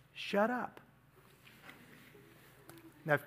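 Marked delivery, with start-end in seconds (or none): 0.1-0.8 hushed, controlled command; quiet stern rebuke. Acted. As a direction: silence them without raising your voice. Jesus acted silencing a demon.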